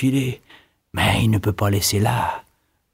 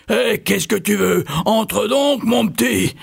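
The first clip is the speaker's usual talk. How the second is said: witch roaring; 10 semitones higher, slower than usual. A narrator's reading. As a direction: greet the boy like a hungry witch. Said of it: "elle rugit".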